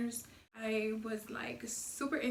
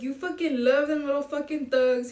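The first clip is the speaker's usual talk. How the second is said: loud, punchy imitation of a rebuke; acted scolding; 3 semitones higher, 7 dB louder than usual. Homie scolds her about thugs, loud acted scolding. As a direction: play the fed-up friend, louder.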